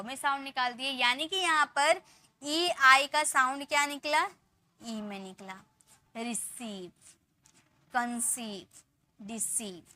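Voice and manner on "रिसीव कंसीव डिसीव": रिसीव, कंसीव, डिसीव softly, the seev held; spaced model words रिसीव, कंसीव, डिसीव with lengthened final syllable; stretched long ee. Shown as a demonstration. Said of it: "थोड़ा टान कर बोल रहे".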